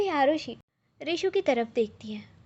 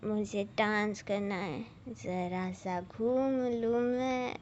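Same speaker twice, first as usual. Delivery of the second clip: tipsy whine; 4 dB quieter, slower than usual. Acted. Tipsy Arushi begging to dance.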